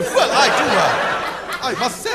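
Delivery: light prissy droid impression; fussy protocol robot, lightly voiced; C-3PO voice. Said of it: "robot voice of choice is C three P O".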